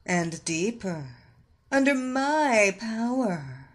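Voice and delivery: slow, sultry hypnotic commands; seductive hypnotist. Acted. Hypnotist deepens the trance.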